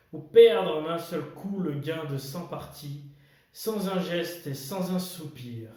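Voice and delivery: measured verse with pauses between lines; poem recitation. Acted. Host reading Kipling's If to viewers, poem recitation. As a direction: recite it line by line, weighing key words.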